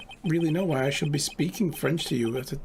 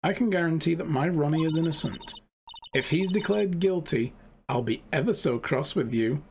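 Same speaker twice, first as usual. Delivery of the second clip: lightly voiced sweetly menacing wife; 4 semitones higher than usual. Desiree sweetly threatening the lawyer.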